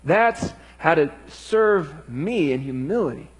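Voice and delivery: a hint of a frustrated but patient Lord; Jesus speaking. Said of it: "Jesus says".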